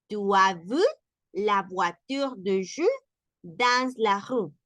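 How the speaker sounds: French at a calmer speed; French sentence. Shown as a demonstration. Teacher repeating the sentence at normal speed. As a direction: read it through at natural pace.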